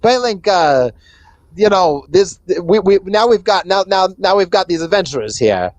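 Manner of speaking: lightly voiced rat boss, hesitating. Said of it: "she turns to the gnome and says".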